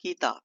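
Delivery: "किताब" with its first vowel lightly held; lightly drawn vowel. Shown as a demonstration. Teacher showing how lightly to pull it, slightly held "किताब". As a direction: stretch the "कि" of "किताब" only slightly. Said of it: "हल्का से खींच के बोले".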